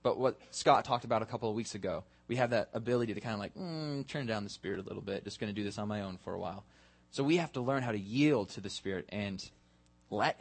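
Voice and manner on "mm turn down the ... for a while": low, quick, soft aside; offhand self-talk. Pretend. Churchgoer talking himself into going it alone, offhand and hushed. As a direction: murmur it quickly, as if to yourself. Voicing someone sidelining the Spirit.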